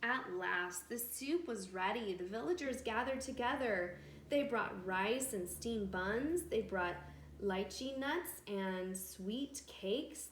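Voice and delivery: lively read-aloud with voiced villagers; storytelling to children. A narrator's reading. Narrator telling children a village tale, bright storytelling. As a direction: read it like a bedtime story for kids.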